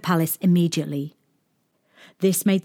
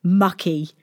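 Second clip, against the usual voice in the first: put-on teasing boy; 4 semitones higher, 3 dB louder than usual. A narrator's reading.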